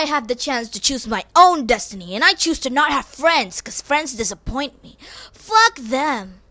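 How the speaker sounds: a touch of crying in the voice; half sob it out; mock tearful defiance. Sarcastic reply to the classmates, mock tearful.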